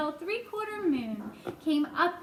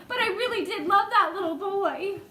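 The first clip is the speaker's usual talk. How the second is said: mildly voiced sob; 5 semitones higher, 4 dB louder than usual. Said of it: "the earthworm sobbed".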